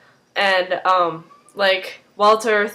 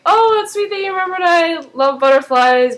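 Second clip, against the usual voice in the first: high-pitched, gushing imitation; gushing Astrid; 9 semitones higher, 4 dB louder than usual. Colleague sees the butterfly jar, high mock gushing. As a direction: put on a high, sweetly touched voice.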